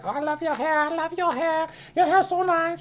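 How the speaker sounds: high mock Asian accent imitating admiring girls. Tourist girls gushing over his hair in a mock Asian accent. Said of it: "they all had that accent".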